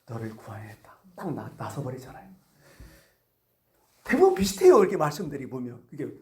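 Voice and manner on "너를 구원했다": very low, soft pronouncement; quiet authority, sinking lower at the end; Jesus granting it. Acted. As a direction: quote a calm, hushed blessing. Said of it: "그랬더니 예수님은".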